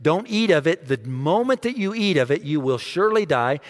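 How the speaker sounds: God's command. Acted. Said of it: "He says".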